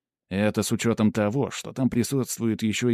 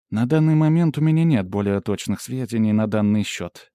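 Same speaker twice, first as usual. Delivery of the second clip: lightly voiced assistant, slightly raised and louder; assistant giving a report; 5 dB louder than usual. Pandora reporting scan results to the hero, lightly voiced assistant. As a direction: report findings with an analyst's formal precision.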